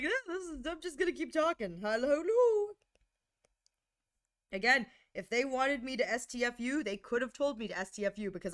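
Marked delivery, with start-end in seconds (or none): 0.0-2.7 chatty and high. Retold or imitated. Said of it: "I was just like".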